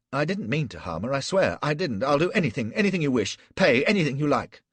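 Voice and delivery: high, loud panicked pleading; frantic begging. Acted. Flashman begging Gul for mercy, high and panicked. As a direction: beg for your life, voice climbing. Flashman begs for his life.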